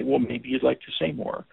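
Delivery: gentle statement. Shown as a demonstration. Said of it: "do you hear the difference between the question and the statement?".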